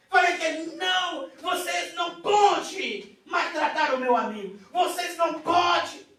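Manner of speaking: loud, high protest; pleading shout. Retold or imitated. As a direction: cry out to stop them hurting a friend. Retelling defending friend in vision.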